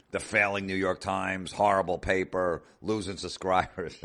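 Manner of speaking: a hint of Trump's bragging sneer; Trump impression. Trump impression, mocking paper.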